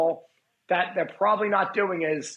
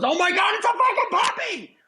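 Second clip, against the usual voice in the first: much higher, squealing over a puppy; a stranger squealing at a puppy; gushing puppy squeal; 4 dB louder than usual. Retold or imitated. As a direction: shriek like you've just seen the cutest puppy. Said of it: "somebody goes".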